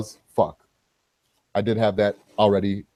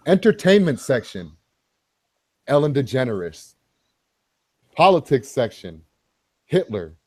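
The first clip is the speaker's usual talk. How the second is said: game show host. Acted. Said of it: "in your game show host voice".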